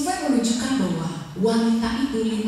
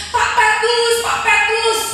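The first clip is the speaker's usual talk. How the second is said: high, loud shout to get someone's attention; raised insistent call; 8 semitones higher, 5 dB louder, slower than usual. Acted. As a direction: holler the name across a distance. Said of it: "engkau teriak".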